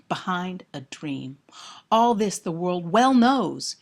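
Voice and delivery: measured reading building through the list; poem recitation. Acted. Lecturer reads Sonnet one twenty-nine to students, dramatic recitation.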